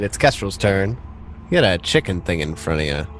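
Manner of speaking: ordinary delivery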